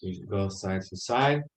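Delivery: talking with cheeks full of air; puffed out cheeks. Real, not acted. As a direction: speak through puffed cheeks. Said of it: "just puff up your cheeks".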